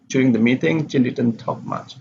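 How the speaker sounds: "Jane" left unstressed after "meeting"; no stress on Jane. Shown as a demonstration. Teacher reads a name already mentioned, "Jane" unstressed. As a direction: pass lightly over "Jane", falling to the end. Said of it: "does not need to be stressed".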